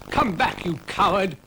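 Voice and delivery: high call after them. Acted. Dougal calling after a fleeing actor, high. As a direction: shout after the deserter.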